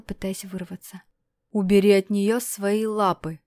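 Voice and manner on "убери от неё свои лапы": hard, loud threatening command; harsh voice. Acted. Dmitry warning the stranger off his bride, harsh and loud. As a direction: order him off her, harshly and loud. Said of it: "жёсткий голос Дмитрия".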